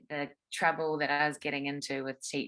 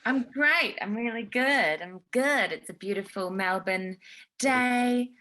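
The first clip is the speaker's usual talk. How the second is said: high, loud cheery reply; real buoyant enthusiasm, voice pitched up; upbeat enthusiasm; 7 semitones higher, 6 dB louder than usual. Real, not acted. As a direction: answer brightly, loud and lifted.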